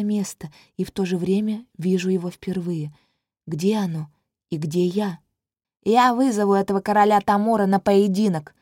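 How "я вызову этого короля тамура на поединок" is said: put-on loud, passionate young prince; fiery youthful challenge; ardent young man. A narrator's reading. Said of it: "пылкий юношеский голос".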